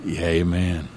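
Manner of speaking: earnest, steady pastor's prayer voice; spoken prayer. Acted. Pastor praying for a friend's healing, earnest prayer. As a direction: pray it simply and sincerely.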